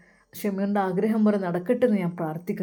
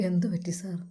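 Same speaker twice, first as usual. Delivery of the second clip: a shaken, breathless whisper; whispering sir, what happened, after the hurt; hushed whisper; 4 dB quieter than usual. Acted. Shameer hurt by bad news.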